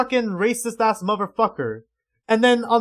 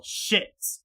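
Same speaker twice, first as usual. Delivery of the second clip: whispered curse; deflated whisper; 6 dB quieter than usual. Real, not acted. Fan realising it's a side character, deflated whisper. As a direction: let the word out as voiceless dismay. Disappointed aside after celebrating.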